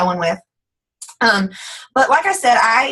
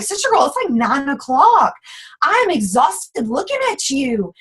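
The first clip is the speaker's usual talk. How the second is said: mock exasperation; 3 semitones higher than usual. Tired caller reacting to dolled-up friends, mock exasperated. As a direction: stretch it out in playful disbelief.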